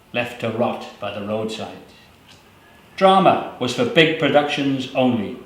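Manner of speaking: measured, grave poetry recital; poem reading. Acted. Poet reading the schools poem to the audience, grave. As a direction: read it steady with dry irony.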